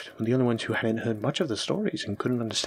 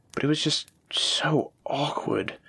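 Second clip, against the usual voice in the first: slow, breathy whisper of an awkward memory; 3 semitones higher, slower than usual. Real, not acted. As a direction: let it slip out as a slow whisper.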